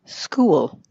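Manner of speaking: "school" as "skoo-wul"; diphthong with mini syllable. Shown as a demonstration. Coach contrasts with student's clip, "school" with added mini syllable. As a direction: glide from "oo" through a schwa into L in "school". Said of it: "Listen to the difference".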